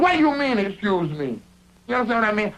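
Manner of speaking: mock belligerent challenge, starting high. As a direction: throw it back at him, acting belligerent. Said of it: "I'm belligerent to this guy".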